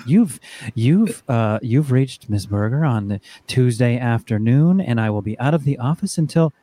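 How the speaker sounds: lightly imitating a mom's slow, formal voicemail voice; a hint of an office voicemail greeting, slow; mom's work phone voice. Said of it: "she had a work voice, like a phone voice".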